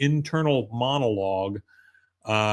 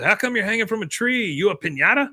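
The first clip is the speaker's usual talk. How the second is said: high, inquisitive imitated child; kid; 8 semitones higher than usual. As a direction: ask it like a puzzled kid. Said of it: "this one kid goes".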